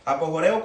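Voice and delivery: "Apojoreo" with the stress on RE; accent on the E. Shown as a demonstration. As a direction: lean on the E in "Apojoreo". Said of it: "con acento en la, en la E".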